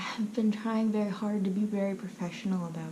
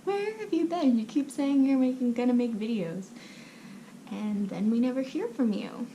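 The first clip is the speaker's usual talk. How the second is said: raised, higher-pitched mock complaint; mock screaming viewers; 4 semitones higher than usual. Viewers demanding to know where the creator has been, mock yelling. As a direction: imitate exasperated viewers, voice lifted. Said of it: "some of you are probably screaming at me".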